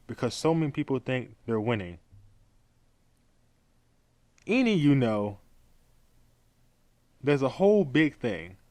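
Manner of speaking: halting reading of a rambling statement; deliberate read with stumbles and gaps; slow read-aloud. Shown as a demonstration. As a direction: read it slowly, pausing between phrases. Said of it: "I'm gonna read this very slowly".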